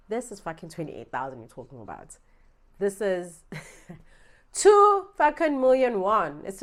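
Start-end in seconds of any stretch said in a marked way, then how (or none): 2.8-6.4 loud, slow, laughing through the words; laughing disbelief. Real, not acted. Telling viewers how much she lost, laughing loudly.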